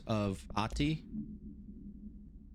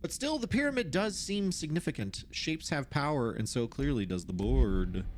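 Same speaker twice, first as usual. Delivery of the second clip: measured, formal reading voice; document read-aloud; 3 semitones higher than usual. Acted. Researcher reads out notes on the oldest house, formal read-aloud.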